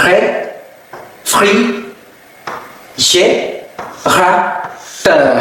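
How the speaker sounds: réfrigérateur very slowly, each syllable apart. Shown as a demonstration. Teacher helps learners with a hard word, reading slowly. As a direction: spell out réfrigérateur by sound with long pauses. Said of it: "อีกรอบหนึ่งนะคะ ลองฝึกออกเสียง".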